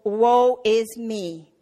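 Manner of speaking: slow, mock-mournful sigh of a line; mock lament. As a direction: parody of gloomy praying. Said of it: "for prayer to be joyful business".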